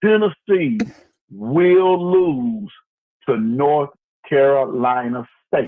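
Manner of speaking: very slow, deliberate, halting, word by word. Asked to repeat what he said, the speaker delivers his prediction really slowly. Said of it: "I'm going to say it real slow".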